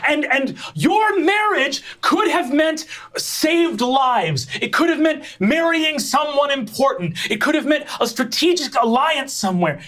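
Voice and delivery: high, lecturing royal sister, rising to a shout; high-voiced angry princess lecturing; stern eldest sister Rococo. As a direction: lay out the stakes in fury.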